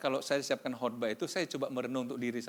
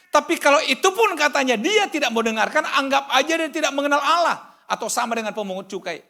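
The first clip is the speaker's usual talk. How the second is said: high, loud sermon cry to the congregation; preaching at full force; 13 semitones higher, 14 dB louder than usual. Acted. (khotbah berapi-api, suara tinggi dan keras)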